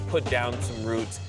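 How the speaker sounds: normal talking voice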